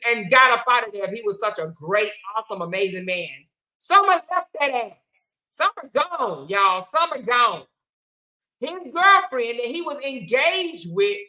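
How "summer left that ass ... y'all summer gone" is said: gleeful. Real, not acted. Gleeful loud declaration.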